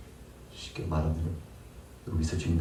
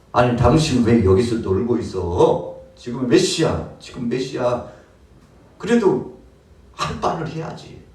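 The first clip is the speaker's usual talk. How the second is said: a stern master's rebuke, louder; demanding to know why he idles; scolding; 2 semitones higher, 4 dB louder than usual. Acted. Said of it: "막 호통치듯이 이야기를 합니다". (농장 주인이 일꾼을 호통치듯)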